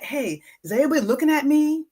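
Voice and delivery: self-conscious dieter fretting at the pool, mock anxious; mock self-conscious worry. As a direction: imitate a nervous glance round, quickly. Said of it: "And then you say".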